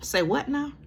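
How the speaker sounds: a sharp, incredulous double take; stunned disbelief. Real, not acted. Vlogger reacting to the quote in the sworn statement, stunned. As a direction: pitch jumps up high in shocked disbelief.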